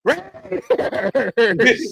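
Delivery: high, drawn-out call breaking into laughter; imitated yelling. Stepdad joining the boy, laughing mock yell. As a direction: holler along, then crack up.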